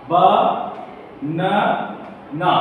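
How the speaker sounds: বা না না with a long pause after each syllable; three isolated beats, বা, না, না. Shown as a demonstration. Teacher giving a three-syllable example, বা না না split apart. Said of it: "যখন তিনটি অক্ষর একসঙ্গে".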